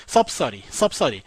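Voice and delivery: 섭서리 with a soft r-like middle for the d; softened pronunciation. Shown as a demonstration. Teacher modelling subsidy for students, softened into 섭서리. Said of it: "서리에 가깝게 읽어주시면 돼요".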